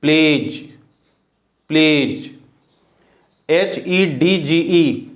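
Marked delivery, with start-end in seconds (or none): 0.0-2.3 प्लेज with only a j sound at the end; silent D. Shown as a demonstration. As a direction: say प्लेज, no separate d. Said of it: "यहाँ भी डी और जी आया है". (प्लेज में डी silent)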